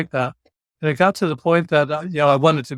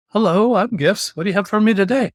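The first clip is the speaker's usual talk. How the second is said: mock cheery greeting; 5 semitones higher than usual. Mock self-advertising greeting.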